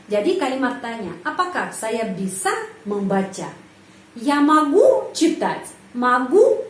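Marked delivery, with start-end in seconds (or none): 4.1-5.7 могу hit louder in a slow sentence; teacher demo of question stress. Shown as a demonstration. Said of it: "penekanan intonasi pada kata могу". 6.0-6.7 могу said alone, louder, with a rising tune; isolated stressed word for learners. Shown as a demonstration. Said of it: "penekanan intonasi pada kata могу".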